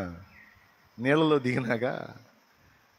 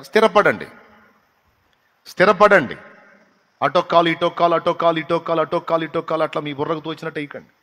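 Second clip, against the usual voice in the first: loud, higher repeated warning; urgent exhortation; 4 semitones higher, 6 dB louder than usual. Acted. Pastor urges the congregation to settle, exhorting loudly. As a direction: hammer the warning home.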